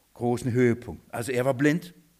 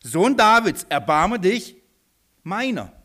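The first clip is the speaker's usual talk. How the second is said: loud cry, louder on Davids; bellowing plea; 3 semitones higher, 4 dB louder than usual. Acted. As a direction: roar it out for mercy. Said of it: "Er brüllte".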